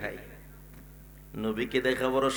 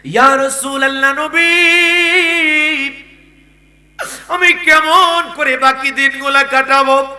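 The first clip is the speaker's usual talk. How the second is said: hammed-up weeping call in a preacher's chant; acted sobbing plea, half-sung; tearful pleading; 10 semitones higher, 10 dB louder than usual. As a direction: cry out to the Prophet, stretching the last vowels. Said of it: "চোখের পানি ছেড়ে কান্না করে ডাক দেয়া".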